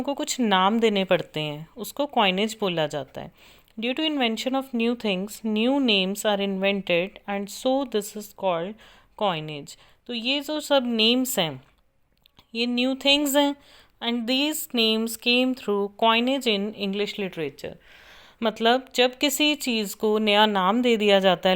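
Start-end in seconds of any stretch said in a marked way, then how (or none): 3.8-9.8 slow, deliberate dictation for note-taking. Acted. Teacher dictating a definition to students, slow and measured. 14.0-17.7 slow, deliberate dictation for note-taking. Acted. Teacher dictating a definition to students, slow and measured.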